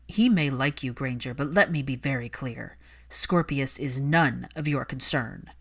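low cold warning; cold Malfoy. Acted. Malfoy warning Hermione off his son, coldly. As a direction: shut her down icily.

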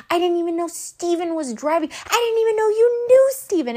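climbing to a high mock outcry; protesting disbelief. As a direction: protest with rising pitch, retelling the argument. Acted quarrel on the phone.

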